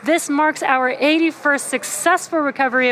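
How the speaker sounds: thrilled announcement; excited. Real, not acted. Booster lands on drone ship.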